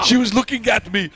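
hammed-up Austrian accent; Arnold. Host adds an excuse for the affair, mock Austrian accent. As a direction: plead in a put-on Austrian accent. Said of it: "Arnold, why did you do it?".

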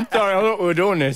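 laughing through the words. Real, not acted. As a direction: apologise while still laughing. Laughs after joking about eating.

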